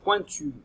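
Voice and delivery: Pointu said high and slightly loud; modelled word. Shown as a demonstration. Teacher to pupils, modelling the word high. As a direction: present Pointu to the class. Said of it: "on met le doigt sur la pointe".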